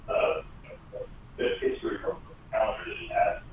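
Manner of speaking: faint, distant speakerphone sound. Real, not acted. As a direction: voice far across the room on speakerphone. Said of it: "Sounds like you're on a speakerphone across the room".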